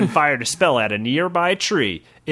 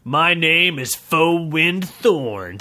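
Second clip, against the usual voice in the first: slow proud introduction; 2 semitones higher, much slower than usual. Acted. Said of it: "said the wood elf".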